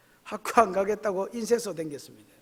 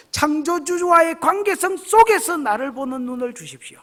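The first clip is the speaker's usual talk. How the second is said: fervent prayer; 9 semitones higher, 11 dB louder than usual. Shown as a demonstration. Preacher demonstrating the prayer for opened eyes, rising to a loud cry. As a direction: climb from plea to a loud high cry.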